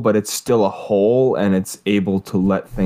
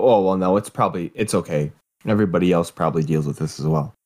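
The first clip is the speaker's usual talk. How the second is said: reassuring; 3 semitones lower, faster than usual. Retold or imitated. Voicing reassuring inner thought.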